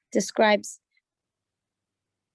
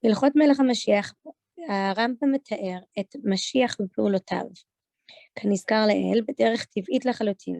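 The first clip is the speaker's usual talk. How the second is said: Israeli Hebrew pronunciation; Israeli accent; much faster than usual. Shown as a demonstration. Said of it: "doing it in an Israeli accent".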